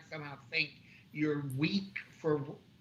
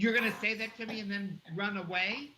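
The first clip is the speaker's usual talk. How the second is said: retold yell; 6 semitones higher than usual. Shopper voicing the manager yelling after him, mock yell. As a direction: imitate someone calling after you, pitched up. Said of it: "he yelled after me".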